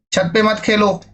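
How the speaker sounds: "छत पे मत खेलो" said gently, pitch up on "पे"; soft advice. Shown as a demonstration. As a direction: coax a child kindly. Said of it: "प्यार से भी और". (प्यार से मना करना)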